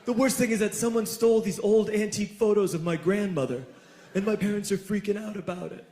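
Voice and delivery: mildly distressed party-host voice; imitating upset schoolmate. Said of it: "he says".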